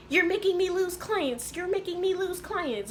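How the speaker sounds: high, drawn-out mocking whine of complaint; exaggerated high-pitched imitation of a frantic boss; mock freak-out. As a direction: imitate a boss going crazy, slowly and high. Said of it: "going crazy".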